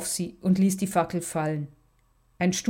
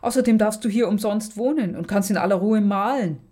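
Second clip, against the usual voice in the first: getting worked up; 2 semitones higher than usual. Acted. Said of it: "ereiferte sich Alexandra".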